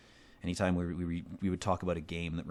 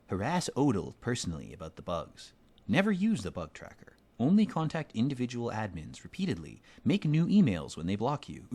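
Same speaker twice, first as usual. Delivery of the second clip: mock earnest advice; 4 semitones higher than usual. Real, not acted. Reading terrible advice mockingly.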